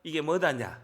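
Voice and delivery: lightly Jeolla-accented question; a hint of Jeolla lilt; Jeolla dialect. Shown as a demonstration. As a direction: southwestern Korean accent from Jeolla. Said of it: "전라도 사투리 뭐냐고요".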